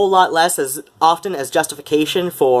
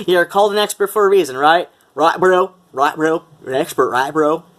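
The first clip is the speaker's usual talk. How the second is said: dudebro voice; 3 semitones higher than usual. Retold or imitated. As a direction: needle him like a smug dudebro. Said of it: "humiliating myself with that voice".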